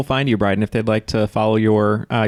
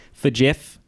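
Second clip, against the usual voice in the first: put-on Australian accent. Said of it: "do it in the accent".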